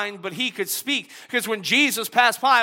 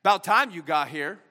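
mock impatient. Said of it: "He didn't say".

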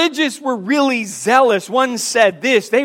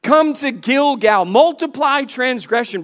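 high-pitched, mock-inviting scripture reading; sarcastic; 3 semitones higher than usual. Preacher reads God's sarcastic call to Israel's worshippers, sarcastic. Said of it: "there's sarcasm in chapter four".

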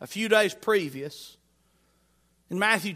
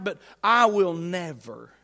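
slow, measured vow; slow down to make the vow land; firm profession; 3 semitones lower, slower than usual. Acted. Preacher acting Peter vowing he will never, slow and firm. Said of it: "Peter had professed and proclaimed".

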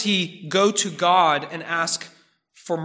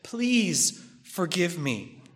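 earnest plea. Acted. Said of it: "He says".

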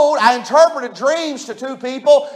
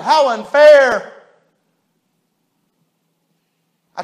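mildly louder wounded protest as Joseph; Joseph's hurt complaint; 3 semitones higher, 4 dB louder than usual. Acted. Joseph protests to the listeners about Potiphar's wife, hurt and pleading. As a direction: ask them over and over how unfair it was. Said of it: "If Joseph could talk".

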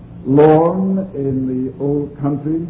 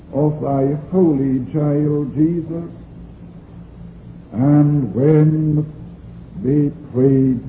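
scripture reading; 2 semitones higher than usual. Acted. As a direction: read it like scripture from the pulpit. Reads scripture aloud from pulpit.

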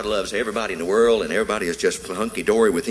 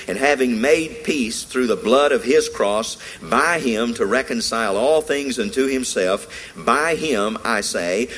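scripture reading. Real, not acted. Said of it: "he says".

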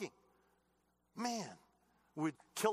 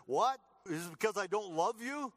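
indignant Paul; 5 semitones higher, 4 dB louder than usual. Acted. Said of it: "He says".

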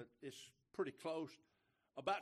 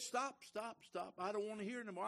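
higher, exasperated stop stop stop; annoyed refusal; 6 semitones higher than usual. Retold or imitated. Stranger cutting off the preacher's witness, exasperated. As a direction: wave him off, fed up. Man refusing to hear gospel.

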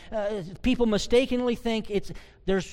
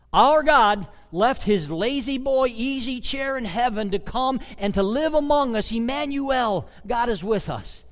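fervent preaching; 5 semitones higher, 5 dB louder than usual. Acted. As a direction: swell the voice with wonder. Preacher rising in fervor.

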